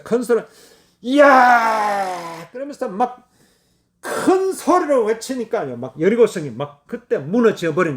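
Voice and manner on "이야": long drawn-out battle cry; drawn-out cry as the walls fall; victory shout. Acted. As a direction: stretch the shout like an army cheering. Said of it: "큰 소리로 외치라 그랬어요".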